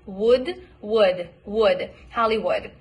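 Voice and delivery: relax the vowel in "Hollywood" to a short "ud". Shown as a demonstration. Coach modelling the relaxed vowel in "Hollywood". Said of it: "So it's basically just ud".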